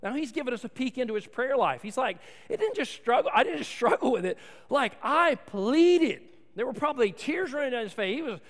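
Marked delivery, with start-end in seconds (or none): 2.5-6.2 rising, urgent plea; pleading Paul. Pretend. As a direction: press the word pleaded out, long and loud. Pastor voices Paul pleading.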